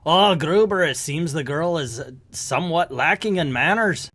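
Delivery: put-on a clumsy Scottish accent meant to be German; a reviewer hamming up a Nazi villain in a poor Scottish accent; bad Scottish accent. Reviewer voicing a Nazi officer, sloppy Scottish accent. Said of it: "that wasn't a great Scottish accent".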